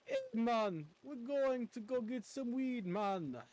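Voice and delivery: a casual imitation of a laid-back Jamaican guy; Jamaican accent. Gamer imitating the NPC's voice, light mock Jamaican accent. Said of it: "'Cause he kinda sounds like".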